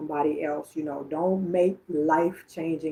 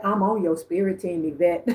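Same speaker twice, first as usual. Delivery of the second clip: mildly sassy quote; 4 dB louder than usual. Retold or imitated. Medium voicing a grandmother to Yvette, mildly sassy. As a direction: relay it with a touch of sass. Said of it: "Like, so sassy, this one".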